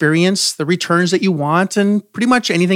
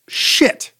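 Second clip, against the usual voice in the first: breathy whispered swear; whispered curse. Pretend. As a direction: hiss the curse under breath. Disappointed swear, unvoiced.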